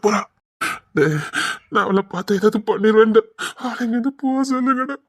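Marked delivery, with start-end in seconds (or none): 3.6-5.0 tearful. Acted. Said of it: "நான் அழுதுருவேன்டா".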